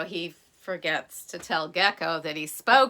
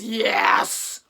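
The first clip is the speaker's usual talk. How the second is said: woken, loud answer; 4 dB louder than usual. Acted. Chief woken, drags to window.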